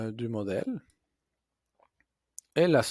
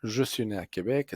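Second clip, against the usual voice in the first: reading aloud. Shown as a demonstration. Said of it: "je peux commencer ma lecture".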